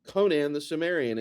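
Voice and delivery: k in "Conan", s in "Cimmerian"; mixed C sounds. Shown as a demonstration. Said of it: "and you mix them".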